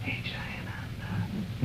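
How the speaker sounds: slow whisper, barely voiced; whispered wake-up. Waking a sleeping friend on the cold lot, whispering slowly. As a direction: breathe his name softly so he barely stirs. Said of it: "just real quietly went over and said".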